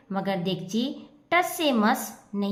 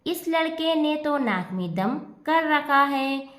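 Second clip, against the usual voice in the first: mildly exasperated, teeth gritted; a touch of grinding annoyance; through gritted teeth; 3 semitones higher than usual. Acted. Mother annoyed at the pot-headed boy, speaking through gritted teeth. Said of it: "दांत पीसती हुई".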